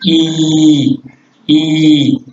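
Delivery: I held out long and clear; long vowel I. Shown as a demonstration. Teacher showing his class a long Wolof vowel, drawn out. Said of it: "La voyelle longue I".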